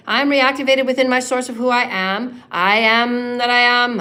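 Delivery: building declaration; spoken affirmation. Acted. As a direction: rise with conviction each line. Leading affirmations.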